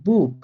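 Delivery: বুক with the final ch said like Bengali খ, a throaty kh; German pronunciation. Shown as a demonstration. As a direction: say বুক as German Buch, ending on a rough kh. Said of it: "Bangla খ এর মতো করে উচ্চারণ করব".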